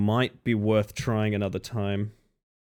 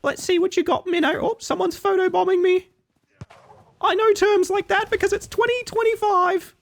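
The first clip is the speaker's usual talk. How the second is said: tiny squeaky urchin voice, much higher throughout; Victorian starving child. Pretend. Streamer begs the game for a controller as a Victorian starving child. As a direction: beg like a starving little street urchin. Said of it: "You're going for Victorian starving child".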